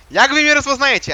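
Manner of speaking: changed voice; trying to disguise his voice; disguised voice. Real, not acted. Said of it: "przecież zmieniam głos".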